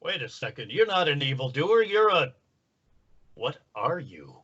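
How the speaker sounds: pompous superhero, suddenly puzzled; the Tick. Acted. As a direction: swing from hushed doubt to heroic bafflement. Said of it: "you'd look at Michelangelo and say".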